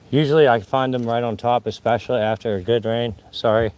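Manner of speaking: breathless after walking uphill; winded, pushing words out; out of breath. Real, not acted. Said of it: "I'm out of breath".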